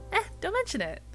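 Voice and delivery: light, high-pitched brush-off; bright. Acted. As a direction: wave away the thanks cheerily. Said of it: "she says brightly".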